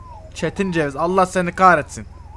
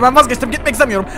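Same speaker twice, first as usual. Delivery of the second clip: panicked plea; 4 semitones higher, 5 dB louder than usual. Pretend. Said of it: "durdurabiliyorsun bunu".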